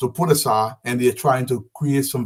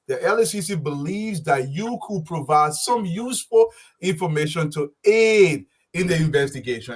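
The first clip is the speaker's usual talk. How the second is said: quoting the senator's letter high, leaning hard on the stressed words; mimicking his stress; 3 semitones higher than usual. Commentator reads the senator's quoted letter back to him, imitating his emphasis. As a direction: read "believes that you could provide some useful information" as if pressing each key word. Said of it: "this is where you stress".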